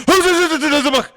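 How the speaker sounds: high, loud excited call; excited spotting. Retold or imitated. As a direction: blurt it out like you just spotted a deer. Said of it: "so we go again".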